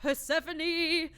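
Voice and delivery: slow, delighted call of the name; drawn out with delight; excited. Real, not acted.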